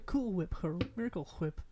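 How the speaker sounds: "Whip" said as hwip; "Whip" with an exaggerated puffed wh. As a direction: blow an h into "Whip". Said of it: "See, you did it again".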